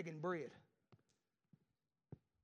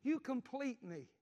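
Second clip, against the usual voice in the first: movie line quote; 3 semitones higher, slower than usual. Retold or imitated. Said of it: "that little old girl tells him".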